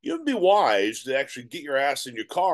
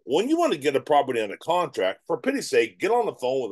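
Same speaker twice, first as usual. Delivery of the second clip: animated, emphatic coaching voice; passionate. Shown as a demonstration. Coach urging wholesalers to call sellers, passionate. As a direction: push it with energy and conviction. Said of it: "You see I'm being passionate".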